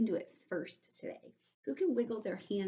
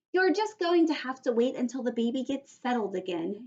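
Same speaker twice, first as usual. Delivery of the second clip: grumpy mother; 4 semitones higher, 4 dB louder than usual. Acted. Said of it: "still grumpy".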